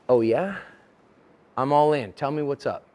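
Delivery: closed-off, low-key challenge; ready to fight. Acted. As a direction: square up to them with restrained anger. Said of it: "I'm mad, I'm closed, I'm ready to fight".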